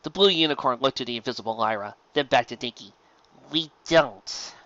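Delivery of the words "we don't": pained. Acted. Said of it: "a pained tone to her voice".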